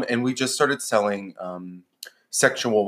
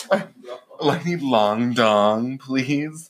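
mock client request; 2 semitones higher, much slower than usual. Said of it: "I'd be like".

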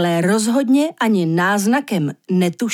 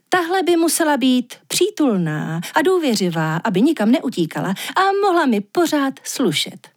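higher, wheedling voice of a spoiled woman; spoiled young woman asking the walrus for a fashionable pet, higher and wheedling; vain, pampered woman; 5 semitones higher than usual. Acted. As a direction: coax the creator sweetly to get a pet.

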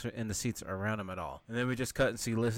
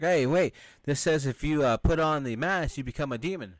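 higher, louder acted interruption; mock urgent discovery; 4 semitones higher, 4 dB louder than usual. Guy reading the book's warning to friends, mock urgent. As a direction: imitate a guy alerting his friends.

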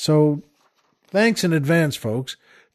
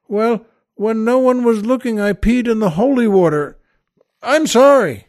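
lightly voiced upset boy, higher; confess, then burst into a higher apology; confessing altar boy; 4 semitones higher than usual. Third altar boy confesses to the priest, mildly hammed-up distress. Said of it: "and, and the boy says".

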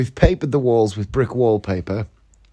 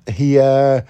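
ordinary talk

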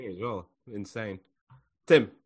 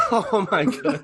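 higher-pitched exclamation breaking into laughter; laughing mock dismay; laughing disbelief; 9 semitones higher, 4 dB louder, slower than usual. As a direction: retell your shock while laughing at it. Retelling horrified reaction, laughs.

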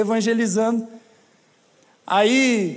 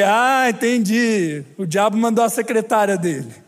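deadpan realisation; 2 semitones lower than usual. Retold or imitated. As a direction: drag it out with ironic calm. Dry joke about devil's secretary.

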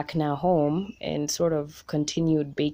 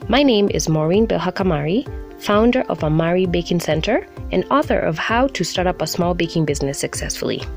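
podcast intro read; 4 dB louder than usual. Acted. Recorded podcast intro over music.

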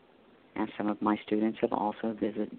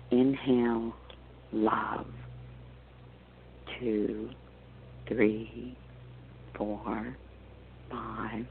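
guided meditation. Acted. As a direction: guide them gently into calm.

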